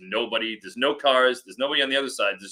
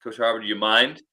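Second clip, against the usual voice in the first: politely acted-out request; mild, deferential ask; 3 semitones lower than usual. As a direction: ask courteously, a little lower. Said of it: "just, you know, politely".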